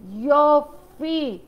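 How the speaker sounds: יופי stretched very slowly, savoring it; a long slow appreciative יופי; drawn-out יופי. Shown as a demonstration.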